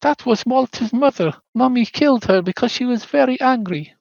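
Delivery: put-on high childlike voice of a ghost girl; high little-girl voice; little girl Rose. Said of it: "Rose says in her head".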